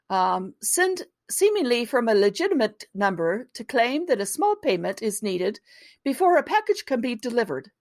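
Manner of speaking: put-on a clumsy, half-hearted British accent; mock British accent. Reading the BBC report to her co-host, in a mangled British accent. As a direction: read it like a BBC report, badly faking British. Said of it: "it was a really massacred version".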